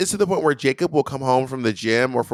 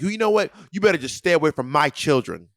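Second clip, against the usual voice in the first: higher-pitched imitation of a mad opponent; mock-indignant warning; retold anger; 3 semitones higher than usual. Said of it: "he got really mad".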